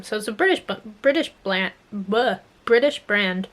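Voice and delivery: stumbling through a sore, swollen mouth; swollen mouth after wisdom teeth. Real, not acted. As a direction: talk like your jaw is swollen and stiff. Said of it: "still hard to talk after I got my wisdom teeth out".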